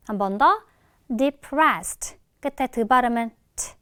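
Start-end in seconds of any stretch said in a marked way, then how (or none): 1.2-2.2 "depressed" ending in a small, light t; light final t. Shown as a demonstration. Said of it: "살짝만 발음해주면 되는데". 3.5-3.7 "트" as a tiny burst of t; barely released t. Shown as a demonstration. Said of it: "요런 식으로 살짝만".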